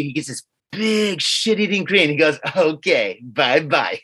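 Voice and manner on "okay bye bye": a hint of a smug cartoon villain goodbye; lightly voiced gloating villain farewell. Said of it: "almost like a villain from a nineteen eighties or seventies cartoon".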